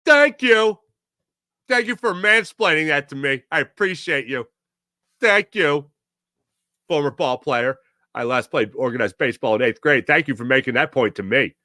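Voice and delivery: lightly done comedian impression, mock-grateful; Brian Regan. Host mock-thanks a mansplaining analyst, comedian impression. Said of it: "that's my Brian Regan impression".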